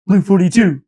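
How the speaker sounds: loud, high imitated play call; punchy mock football cadence; quarterback snap call.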